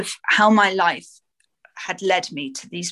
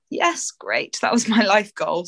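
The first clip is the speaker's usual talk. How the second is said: sarcastic glee; 3 semitones higher than usual. Retold or imitated. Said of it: "And I was like".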